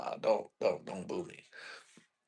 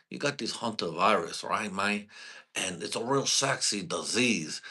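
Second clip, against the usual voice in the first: mock Cuban anchor; 3 dB quieter than usual. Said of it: "Cuban news anchor sounding so fucking, like, Cuban and sexy".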